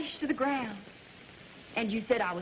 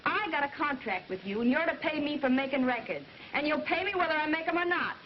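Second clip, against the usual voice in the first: put-on Southern accent. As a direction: let the Southern accent come through in anger. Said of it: "Phoebe, your Southern accent".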